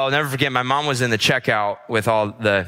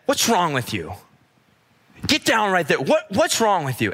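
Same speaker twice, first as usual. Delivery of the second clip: retold yelling; 5 semitones higher than usual. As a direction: imitate a stranger telling off a child. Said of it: "she just started yelling at me".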